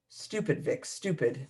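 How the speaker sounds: soft self-scolding mutter; muttering to herself. Acted. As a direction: curse yourself quietly.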